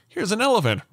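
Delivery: lightly voiced cheerful assistant; a hint of a chirpy device voice; mock smart speaker. Dad mimics the smart speaker, lightly chirpy. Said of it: "it'll be like".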